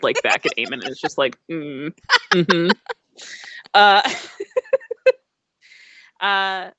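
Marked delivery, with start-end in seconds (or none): 1.5-2.7 low, grumpy "mm"; closed-mouth disgruntled mm-hmm; grudging wordless grumble; disgruntled hum. Acted. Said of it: "just kinda looks disgruntled".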